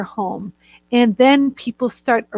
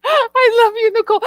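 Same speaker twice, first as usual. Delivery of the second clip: laughing fondly; 11 semitones higher, 3 dB louder than usual. Real, not acted. Laughs affectionately at friend's comment.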